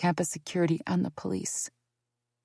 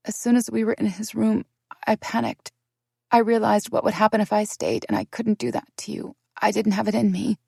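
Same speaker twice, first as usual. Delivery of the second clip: higher, urgent plea; desperate pleading; 5 semitones higher than usual. Acted. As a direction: plead desperately, fighting tears. Desperate confession to husband.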